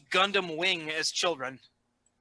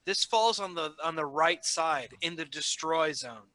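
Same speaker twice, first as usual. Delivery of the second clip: whispered; 3 semitones lower, 4 dB quieter than usual. Real, not acted. Whispered aside at the table.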